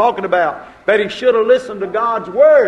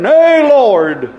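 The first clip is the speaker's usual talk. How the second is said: rebuking; 2 semitones higher, 5 dB louder than usual. Retold or imitated. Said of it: "comes up and rebukes him".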